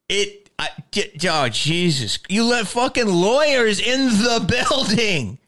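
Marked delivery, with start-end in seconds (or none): 2.3-5.4 laughing exasperation. Real, not acted. Exasperated rant about lawyers.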